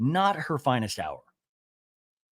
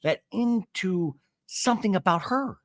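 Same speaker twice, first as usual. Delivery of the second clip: Shannon impression; 7 semitones higher, slower than usual. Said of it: "Shannon and I talking, and goes".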